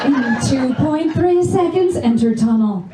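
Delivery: lightly imitated navigation voice, slowed; GPS voice in bed. Comic directs her man in bed like the GPS lady. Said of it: "the right tone of voice".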